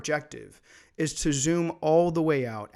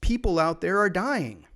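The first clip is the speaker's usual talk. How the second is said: imitated moral outrage, higher and louder; mock scolding rebuke; 4 semitones higher, 5 dB louder than usual. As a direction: scold like a disdainful accuser, hammed-up. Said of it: "this kind of rebuke".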